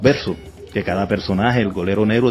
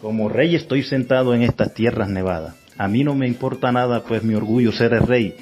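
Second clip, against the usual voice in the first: lightly declaimed king's verse; hammy stage actor; 2 semitones higher than usual. Acted. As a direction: recite the proud king's lines like a stage player. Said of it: "a declamar poemas en cada presentación".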